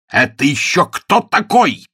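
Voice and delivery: loud, slow, high jealous roar. Acted. Ronnie roars at Sue about the flower sender. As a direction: bellow it, jealousy bursting out. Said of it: "взревел он".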